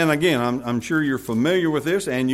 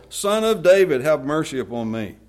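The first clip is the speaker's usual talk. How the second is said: crying out more; 9 dB louder than usual. A narrator's reading. Warned beggar cries out all the more, crying out. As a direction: call out harder over the objections. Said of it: "he cried out all the more".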